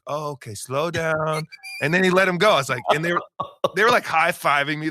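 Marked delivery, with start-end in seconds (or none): 0.1-1.4 slow, higher mock German accent; hammed-up German accent, words stretched; imitating German driver. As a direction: drag it out like a compliant German tourist. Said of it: "and he's like".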